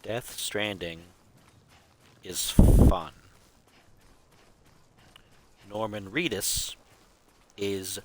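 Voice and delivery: slow, measured haiku with pauses between lines; deadpan haiku recital; haiku recitation. Shown as a demonstration. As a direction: lay out each line like a poem, pausing. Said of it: "That's a haiku".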